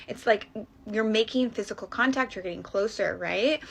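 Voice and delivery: ordinary talk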